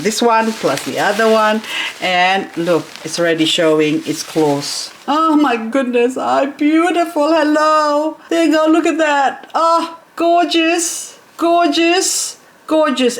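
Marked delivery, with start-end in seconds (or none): 5.1-13.2 high-pitched delighted cooing; high, smitten gushing; adoring coo. Real, not acted. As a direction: coo over it like a newborn. Cooing at plant's new growth.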